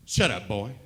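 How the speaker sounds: put-on the Southern cop silencing the boy, in a hillbilly accent. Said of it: "biggest hillbilly accent I'd ever heard".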